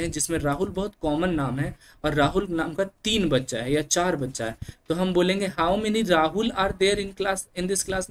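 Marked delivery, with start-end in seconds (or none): 5.6-8.1 How many Rahul are there, spoken very slowly and deliberately; slow classroom example. Shown as a demonstration. Teacher asking a class with several Rahuls, slow and deliberate. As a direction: spell out the sentence word by word for the class. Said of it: "नहीं बोलेंगे".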